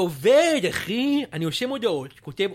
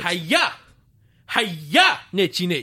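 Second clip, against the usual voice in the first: sudden barked correction, slower; mock shout; 3 dB louder, slower than usual. Fake rapper correcting the host, shouting. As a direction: yell the correction at him. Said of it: "אל תצעק עליי".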